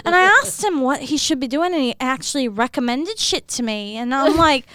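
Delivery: chatty Irish accent. Shown as a demonstration. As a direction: tell it in an Irish lilt. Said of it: "do a little bit Irish".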